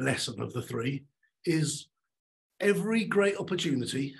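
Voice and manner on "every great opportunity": "every" lifted with rising tune; stress on every. Shown as a demonstration. Coach stressing "every" for the audience. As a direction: lean into "every" then let the phrase rise. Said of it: "I'm gonna say this three times".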